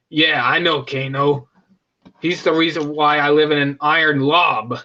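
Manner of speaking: a hint of a low Kabal voice; lightly voiced low rasp; Kabal quote. Kabal explaining his history with Kano, lightly voiced. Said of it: "he says".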